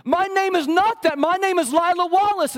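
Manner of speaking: high, loud, slow insistence; a small girl furiously defending her name; furious little girl. Retold or imitated. Pastor voicing Lila to her teacher, high, loud and furious. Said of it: "And Lila was furious".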